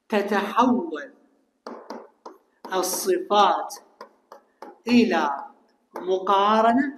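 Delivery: each word spaced apart and drawn out; slow word-by-word dictation to the class. Shown as a demonstration.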